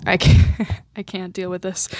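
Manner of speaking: choked, whispered then fading to almost nothing; fighting back real tears through a laugh; real tearful breakdown. Real, not acted. To viewers about a singer's death, tearful and choked. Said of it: "Why am I crying?".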